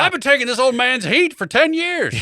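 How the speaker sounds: high, loud whiny protest through a laugh; indignant bully. Acted. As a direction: whine like a wrongly blamed kid. Voicing the neighborhood bully.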